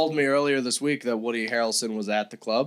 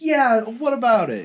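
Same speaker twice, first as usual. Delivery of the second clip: mock nonchalant; 9 semitones higher, slower than usual. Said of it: "so nonchalant".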